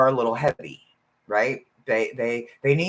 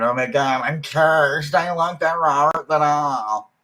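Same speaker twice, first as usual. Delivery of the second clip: gushing, slightly louder; mock excited fan; 2 semitones higher, 3 dB louder than usual. People eyeing Robert the doll, mock gushing. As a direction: imitate a thrilled doll collector. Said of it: "they're going".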